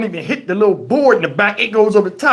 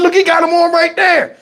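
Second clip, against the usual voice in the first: excited shout; 9 semitones higher than usual. Retold or imitated. Kid shouting about shoes.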